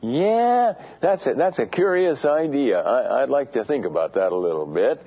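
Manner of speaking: a high, airy yeah, idly mulling it over; mock casual musing. Mocking a believer who idly mulls over judgment. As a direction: brush it off like an armchair philosopher. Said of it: "philosophically look at and say".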